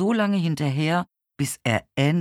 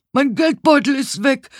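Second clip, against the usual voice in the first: high, loud alarmed shout; frantic high-pitched outcry; loud calling out; 12 semitones higher, 7 dB louder than usual. A narrator's reading. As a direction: shout the theft to the whole neighbourhood. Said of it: "hörte ich jemanden laut rufen".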